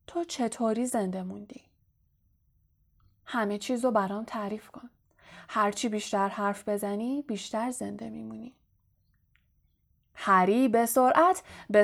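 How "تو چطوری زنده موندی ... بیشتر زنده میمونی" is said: menacing hush. Acted. Riddle menacing Harry in a low voice.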